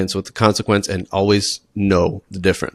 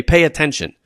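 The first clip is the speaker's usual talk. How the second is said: mock teacher command; 4 semitones higher than usual. Shown as a demonstration. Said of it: "Don't say".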